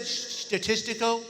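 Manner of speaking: "Statistical" drawn out slowly with a lisped s; mock lisp. Speaker repeats British friend's word "Statistical" to the room, mock lisp. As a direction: mimic a lisp on the s sounds of "Statistical". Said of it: "He's got a lisp".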